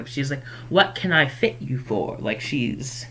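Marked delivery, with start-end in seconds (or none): 0.7-2.2 lightly voiced shopkeeper greeting; a milder, easy customer welcome; toned-down shopkeeper. Shopkeeper greeting a customer, toned down and casual. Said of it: "I do all my characters like that".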